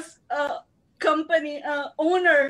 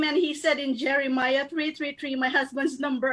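usual speaking voice

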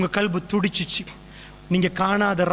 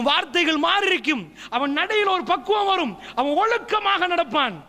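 impassioned preaching; 7 semitones higher than usual. Real, not acted. Preacher lifts into forceful delivery.

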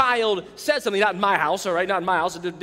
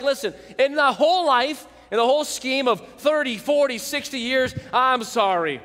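fake apology; 3 semitones higher than usual. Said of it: "just a blanket like".

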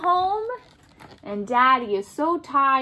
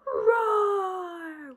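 mock lion roar; 4 semitones higher, 4 dB quieter than usual. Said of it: "The lion's roaring".

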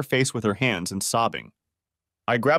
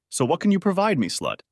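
contemptuous sneer; 8 semitones higher than usual. Acted. Husband confronts cheating wife.

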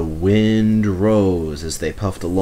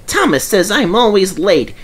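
grumbling; 10 semitones higher, 5 dB louder than usual. A narrator's reading. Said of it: "he grumbled".

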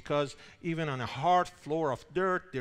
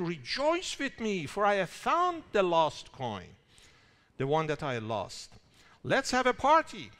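joyful call; 3 semitones higher, 3 dB louder than usual. Retold or imitated. Woman calls friends to rejoice.

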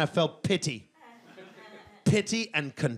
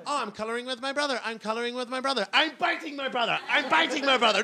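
put-on chirpy toddler; 5 semitones higher, faster than usual. Toddler narrating its own fight.

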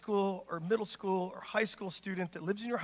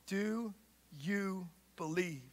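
slow, hushed, intimate ask; Jesus quietly asking Martha; soft searching question; 2 semitones lower, 9 dB quieter, much slower than usual. Acted. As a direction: ask it gently, almost a whisper. Jesus asks Martha gently.

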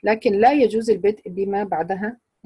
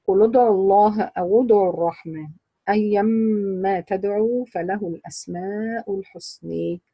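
Quran recitation. Acted. Teacher reciting the Isra verse to her class. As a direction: chant the verse unhurried, letting تدعوا and الحسنى stretch.

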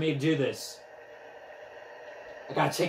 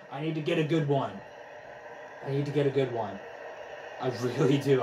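out of breath; 3 semitones lower, 3 dB quieter, faster than usual. Real, not acted. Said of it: "out of breath right now".

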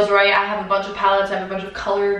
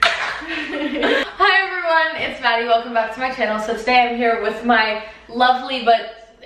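upbeat intro. Shown as a demonstration. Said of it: "You need to be upbeat".

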